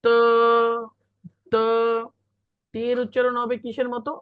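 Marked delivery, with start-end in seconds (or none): 0.0-1.6 long unaspirated ত; Pinyin d as ত. Shown as a demonstration. Teacher models d for the class, drawn-out ত. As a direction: hold ত out as a model syllable. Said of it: "ডি এর উচ্চারণ হবে ত এর মতো".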